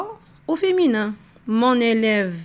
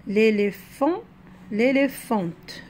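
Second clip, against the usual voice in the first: slow sounding out; slower than usual. Shown as a demonstration. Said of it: "on l'entend".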